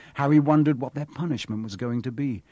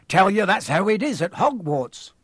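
higher, louder growling retort; growled; 6 semitones higher, 5 dB louder than usual. A narrator's reading. Groundskeeper interrupting boy's threat about father, growling. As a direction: cut him off gruffly. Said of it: "Hagrid growled".

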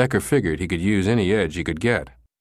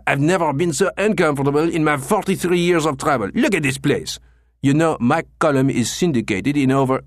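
raging; 7 semitones higher than usual. Acted. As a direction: rage at the injustice done to him. Clochard keeps raging.

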